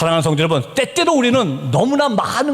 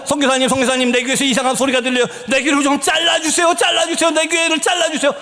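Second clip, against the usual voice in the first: urgent, higher-pitched imitation of begging; retold frantic plea; 6 semitones higher than usual. Tormented youth begging the missionary for help, retold frantic cry. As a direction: mimic a tormented youth's cries. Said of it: "귀를 막고 막 소리 지르기 시작합니다".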